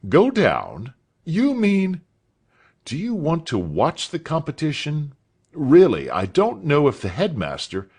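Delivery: lightly voiced, puzzled and surprised master; mild surprise in the master's voice. A narrator's reading. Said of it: "Mister Spence looked surprised".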